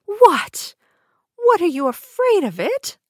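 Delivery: high, loud mocking crone; evil queen. A narrator's reading. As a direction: taunt her into trusting. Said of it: "cried the old woman".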